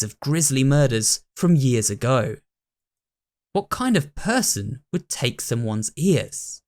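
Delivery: even, measured storytelling read; story narration. A narrator's reading. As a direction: read it like a mystery tale. Reads the story narration aloud.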